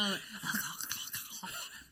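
unvoiced, choking gag; repeated dry gagging sound; gagging noise. Shown as a demonstration. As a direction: make a throaty gagging noise. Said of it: "make my gagging noise".

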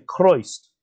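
West Country "Christ", vowel drawn out long like "Croist"; West Country accent. Shown as a demonstration. Historian showing how Whitefield said "Christ", West Country long vowel. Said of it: "a typical West Country accent would lengthen the vowels".

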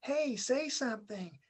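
drawn-out mock girl asking him to talk; mimicking a girl. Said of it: "She's like".

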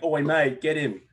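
hammed-up casual shout; mock Aussie holler. Guy over the fence calling his mate, mock holler.

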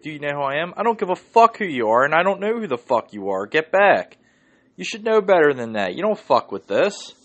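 loud, high furious cop voice; angry cop. Retold or imitated. Cop yelling at a celebrity demanding a gun, furious. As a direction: chew him out like an angry cop. Retold heated exchange with cop.

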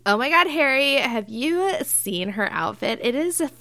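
put-on valley girl. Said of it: "Valley accents".

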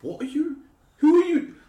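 high-pitched yell; TV shout. Retold or imitated. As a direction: shout at the telly. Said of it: "doing my T V shouts".

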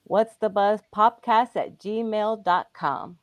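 spelled out slowly, word by word; slow it right down so they catch it; slow and careful. Shown as a demonstration. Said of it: "Say that again".

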